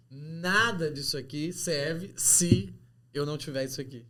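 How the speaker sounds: imitando cliente exigente, "nada" agudo e pausado; cliente taxativo. Retold or imitated. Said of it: "ao invés dele posicionar de uma forma não violenta, ele coloca assim". (cliente dando ultimato, em imitação)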